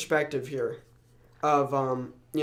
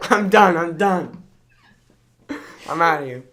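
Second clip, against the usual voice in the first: exasperated shout, much louder; 2 semitones higher, 10 dB louder than usual. Real, not acted. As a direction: throw up your hands and yell it. Frustrated outburst at failing speech.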